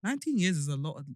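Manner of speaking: reading through a retainer; words slurred by a retainer; wearing a retainer. Real, not acted. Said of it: "My sh-, retainers are fucking me up".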